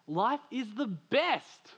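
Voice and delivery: high, slow, ringing declaration; proclaimed refrain. Shown as a demonstration. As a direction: lift it up and stretch it out like a banner. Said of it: "refrain proclaimed to the congregation".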